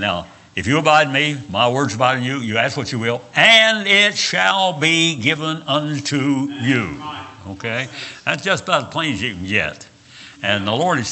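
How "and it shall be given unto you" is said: slow, drawn-out preaching delivery with raised pitch; emphatic scripture quote. Acted. Preacher quoting a Bible promise to his congregation, slow and emphatic. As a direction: stretch each word out as a promise.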